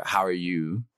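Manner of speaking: "How are you" in a Canadian accent, words run together. Shown as a demonstration. Showing interviewer a Canadian "How are you", Canadian accent. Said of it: "it would be a Canadian way of saying".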